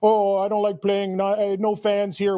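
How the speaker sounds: slow, light mock Finnish accent; a hint of a Finnish player whining; slow mock Finnish accent, whiny player. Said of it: "Was that your Finnish accent?".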